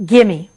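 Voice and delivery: "Gimme" run together for give me; sloppy shorthand. Shown as a demonstration. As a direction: clip "Gimme" as one word. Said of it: "We do this".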